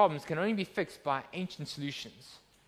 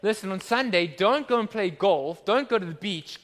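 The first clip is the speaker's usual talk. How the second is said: mock scolding; 5 dB louder than usual. Mock preacher telling people off.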